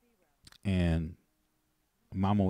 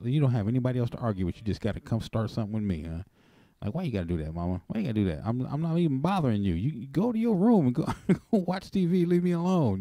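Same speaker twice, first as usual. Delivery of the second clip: retold argument; 5 semitones higher, faster than usual. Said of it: "I said".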